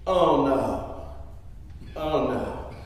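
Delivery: low, sinking "oh no"; dismayed mutter to oneself; mild dismay. Acted. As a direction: let dread sink in quietly. Reading dreaded appointment in acted story.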